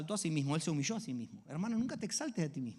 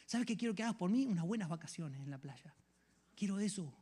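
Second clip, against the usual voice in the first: mock selfish prayer. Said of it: "No le está diciendo".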